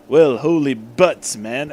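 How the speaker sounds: slow, lightly put-on blowhard captain; a hint of a pompous hero; Zap Brannigan voice. Arthur exclaiming to Eggman, mild Zap Brannigan voice. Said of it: "kinda be like Zap Brannigan".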